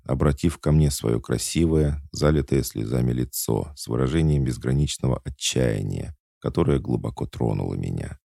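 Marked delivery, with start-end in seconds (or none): none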